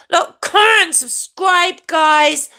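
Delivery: high, chanted sign-off; catchphrase jingle. Shown as a demonstration. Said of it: "what I said in my jingle".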